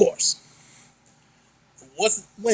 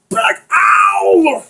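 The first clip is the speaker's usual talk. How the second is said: fed-up yelling; 4 semitones higher than usual. Acted. Fed-up shouting at friend.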